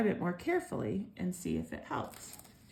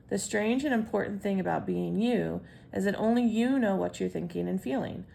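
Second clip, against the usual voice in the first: put-on louder read-aloud voice to kids; 4 dB louder than usual. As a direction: read it out clearly to the children. Reads the lesson text aloud.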